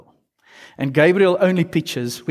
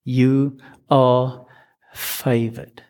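gentle repeat; 2 semitones lower, much slower than usual. Retold or imitated. Gabriel repeating himself to frightened Mary, gentle reassurance. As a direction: reassure a scared girl. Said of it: "Let me say that again".

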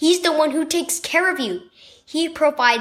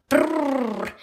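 shivering brrr. A narrator's reading. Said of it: "exclaimed one of the kids".

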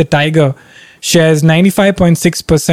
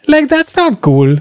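higher, slow "that's not cool"; pitched up and slowed in disbelief; firm scolding; 9 semitones higher, slower than usual. Real, not acted. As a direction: drag it out as a reproach. Scolding the friend.

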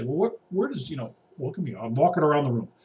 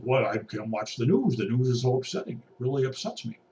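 mock whiny; 4 semitones lower, 5 dB quieter than usual. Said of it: "You can't just".

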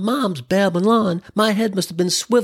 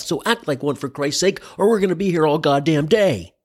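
director; 2 semitones lower than usual. Acted. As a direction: coach the actor, patient but exasperated. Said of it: "the director yells, "Cut," pulls you over and says".

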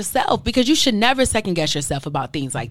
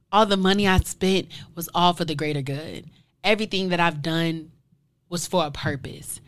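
softer, choked-up words fading out; getting emotional; 3 semitones lower, 5 dB quieter than usual. Real, not acted. Podcaster recalling judgment, getting emotional, softer and choked up. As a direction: let the feeling catch in your throat as it trails off. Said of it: "why am I even getting emotional".

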